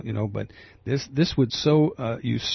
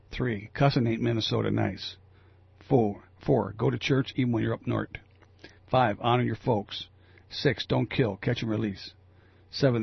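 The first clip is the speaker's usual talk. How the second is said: put-on half-hearted Minnesota accent, a little louder than chat; light Minnesota accent; 3 dB louder than usual. Radio host reading a listener's Minnesota Ten Commandments, light Minnesota accent. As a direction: read it out with just a hint of Minnesota. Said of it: "not gonna try to really do a Minnesota accent".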